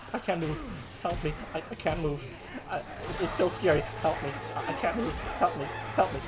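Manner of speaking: halting, stuttered plea for help; frozen with fear, faltering; petrified pleading. Acted. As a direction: plead in small broken phrases.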